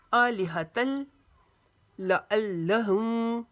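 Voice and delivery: आलिहतल ending on l, leading into लअल्लहुम; joined lam. Shown as a demonstration. Teacher modelling the join, आलिहतल running toward लअल्लहुम. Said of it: "साथ मिलके पढ़ा जाता है".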